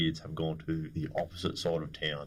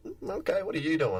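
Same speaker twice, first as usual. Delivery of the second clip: mock firie; 11 semitones higher than usual. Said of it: "firie questions them".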